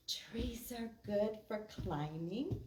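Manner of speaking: measured, sing-song poem reading; rhythmic read-aloud for kids; poem recitation. Acted. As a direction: recite a children's poem with a steady beat.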